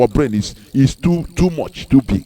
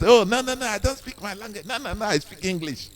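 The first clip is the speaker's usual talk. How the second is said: mocking snob; 4 semitones higher, 8 dB quieter than usual. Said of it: "some people are glamorizing it".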